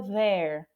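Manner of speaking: "there" with a vibrating TH; voiced TH. Shown as a demonstration. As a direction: let the vocal cords buzz at the start of "there". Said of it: "dá aquela tremida nas cordas vocais".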